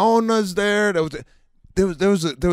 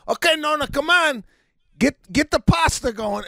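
high, coaxing grandkid voice; grandkids coaxing Nona; 11 semitones higher than usual. Retold or imitated. Grandkids pushing grandma to cook: pitched-up coaxing. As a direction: wheedle grandma like a pushy grandchild. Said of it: "the grandkids in the morning are going".

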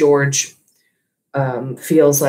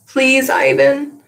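much higher, slow begging; pleading; 11 semitones higher, 5 dB louder, slower than usual. Acted. Young Ruby begging Ivan for a story, slow high plea. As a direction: stretch it out like a little one begging. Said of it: "Ruby pleads".

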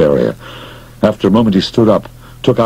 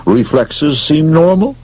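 professional; 8 semitones higher, slower than usual. Acted. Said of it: "the doctor announced professionally".

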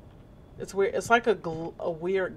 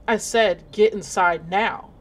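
stern nurse order; 5 dB louder, slower than usual. Acted. Nurse ordering kid inside.

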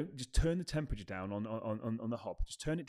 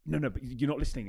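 louder, pushy "no, no" cutting someone off; mock impatient interrupter; 4 semitones higher, 7 dB louder than usual. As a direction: play the arguer who won't let them finish. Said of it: "Don't be like".

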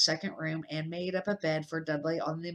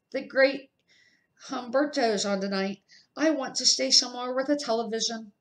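a lightly voiced spoilt boy, higher and quicker; a hint of a pampered kid whining for telly; whiny boy Dudley; 5 semitones higher, 3 dB louder than usual. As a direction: spoilt son pestering his mother, lightly voiced.

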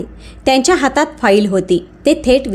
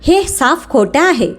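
mild mock yell, higher and slow; a hint of a shouted denial, drawn out; 4 semitones higher, slower than usual. Wife denying the proof to the manager, mild mock yell. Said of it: "Preeti ओरडली".

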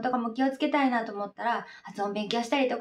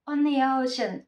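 quick linked phrase; slower than usual. Shown as a demonstration. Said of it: "速くなってる".

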